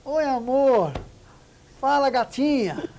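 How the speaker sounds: mock an overly intimate caller; overfamiliar flirty greeting. Shown as a demonstration. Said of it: "Ele fala assim".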